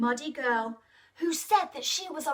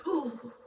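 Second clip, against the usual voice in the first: shiver; 5 dB quieter than usual. Pretend. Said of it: "Can you shiver?".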